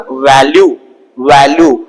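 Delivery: ವ್ಯಾಲ್ಯೂ with the v made on the bottom lip. Shown as a demonstration. Teacher showing bottom lip use, v opening ವ್ಯಾಲ್ಯೂ. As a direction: set teeth on lip to start ವ್ಯಾಲ್ಯೂ. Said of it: "bottom lip".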